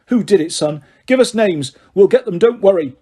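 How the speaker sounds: a bullying dad promising revenge; blustering father. Acted. Uncle Vernon questioning his son.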